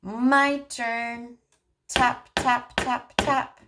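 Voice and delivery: put-on speech therapist modeling turn-taking for a child, sing-song. Shown as a demonstration. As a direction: model it slowly and playfully for a toddler. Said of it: "what you can do is you can say".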